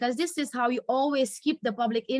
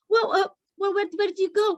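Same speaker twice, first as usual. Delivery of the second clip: hesitant husband; 9 semitones higher, 3 dB louder than usual. Acted. Acted quarrel, husband hesitant.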